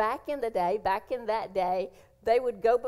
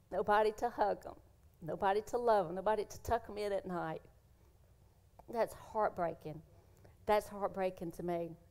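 softer, close to tears; emotional, quiet; 5 dB quieter than usual. Real, not acted. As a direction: hold back real tears, softly. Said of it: "I'm gonna get emotional again".

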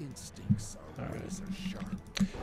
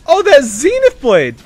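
loud, high, drawn-out cheer; excited shout at the big play; hype play call; 10 semitones higher, 8 dB louder, slower than usual. Real, not acted.

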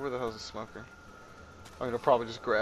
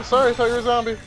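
normal talking voice

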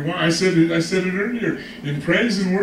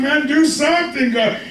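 high-pitched imploring cry, acted out; 7 semitones higher than usual. Preacher voices a woman begging God for help, crying out. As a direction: imitate someone calling urgently for help. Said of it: "She's crying out to God".

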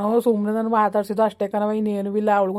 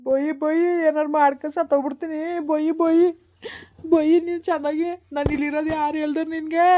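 higher, breaking into sobs; crying wail; 5 semitones higher than usual. Acted. Son sobbing back at his scolding mother, crying. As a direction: wail it out, close to tears.

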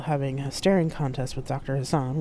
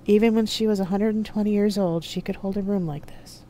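higher-voiced AI companion, lightly voiced; AI companion Loki; 6 semitones higher, 3 dB louder than usual. A narrator's reading. AI tells Carol about the doctor, in a higher voice. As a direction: lightly voice a higher-pitched AI in someone's head.

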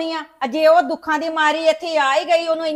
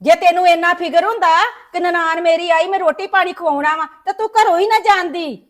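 louder, sharp reproach; scolding; 3 dB louder than usual. Acted. Mother-in-law scolds her son's wife for leaving the house, louder. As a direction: tell her off, raising your voice.

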